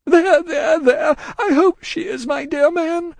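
high, loud, frantic woman; distracted cry. A narrator's reading. Miss Pross hushing Cruncher's speech, distracted. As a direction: cry out frantically, pitched far up. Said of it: "cried the distracted Miss Pross".

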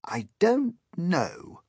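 put-on high, slow old grasshopper; drawn-out, high elderly creature voice. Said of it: "the old green grasshopper said".

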